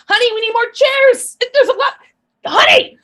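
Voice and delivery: high, loud call across the house. Acted. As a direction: holler for her husband in the other room.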